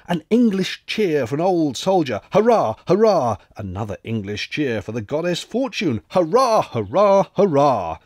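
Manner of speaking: loud hurrahs, pitch leaping up; rousing cheer. Acted. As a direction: shout the cheers like a rowdy toast. Cheers raised at the table.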